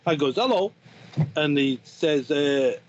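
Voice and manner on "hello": French hello. Retold or imitated. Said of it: "Which is how the French".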